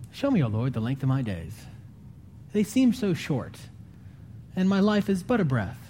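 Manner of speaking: ache over the shortness of life; lamenting reading. Shown as a demonstration. Pastor showing how the psalm should feel, lamenting. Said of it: "it's not, it's not".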